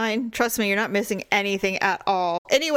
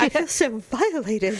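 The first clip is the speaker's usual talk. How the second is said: slow, put-on injured voice; mock wounded dog; 3 semitones higher, slower than usual. Speaking for the dog after the vet visit, mock wounded. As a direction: draw out the dog's hurt, half in jest.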